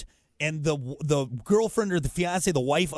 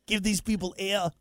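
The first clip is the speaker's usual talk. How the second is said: Austrian action-hero voice, pitched up; Arnold; 4 semitones higher than usual. Acted. Host joking with co-host, Arnold impression. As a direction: demand it in a thick Austrian accent. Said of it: "you haven't done Arnold in a while".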